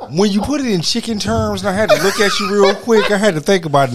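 high, loud, laughing through the words; cracking up mid-sentence. Real, not acted. Cohost laughing at the chicken joke while talking.

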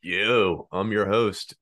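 low, mock-menacing host voice; masked villain voice. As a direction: growl it out like a masked baddie. Masked co-host introduces himself.

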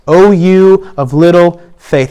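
slow, gentle echo; slow repeat. Shown as a demonstration.

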